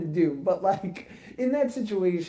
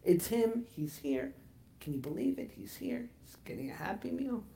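mock announcing; 2 semitones higher, 7 dB quieter than usual. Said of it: "She's announcing to everyone".

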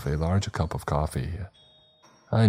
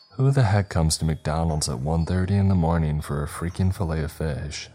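grumbling. Acted. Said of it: "I grumbled".

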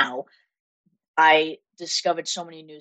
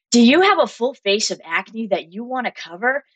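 higher-pitched, put-on radio presenter; fake radio voice; 6 semitones higher than usual. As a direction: imitate your own very fake radio voice. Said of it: "fake, like, radio voice".

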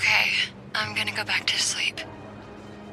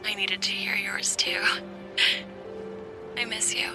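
high, soft whisper; whispering girlfriend; 11 semitones higher, 11 dB quieter than usual. Acted. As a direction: whisper it tenderly.

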